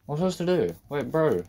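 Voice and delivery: high, loud frustrated protest; exasperated. Real, not acted. Stuck player protesting to the game, high exasperation.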